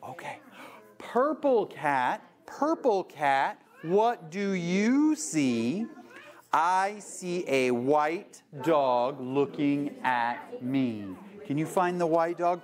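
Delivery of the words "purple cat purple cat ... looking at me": slow, sing-song picture book reading; read-aloud to kids. Shown as a demonstration. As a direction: draw out each line for little listeners.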